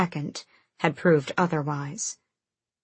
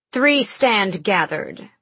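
stern witch matriarch; 3 semitones higher, 3 dB louder, slower than usual. Acted. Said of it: "her grandmother began".

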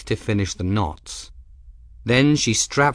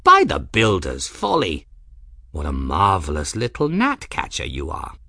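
put-on delighted old man; 3 semitones lower than usual. Ferris marvels at the trap.

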